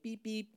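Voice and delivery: soft, feeble little beep; weak car horn. Retold or imitated. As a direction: imitate a puny car horn, quietly. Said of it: "where it got the horns, it's like".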